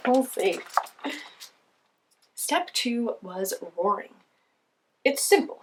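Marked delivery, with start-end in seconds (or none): 5.0-5.6 lion voice. Acted. Lion character speaks.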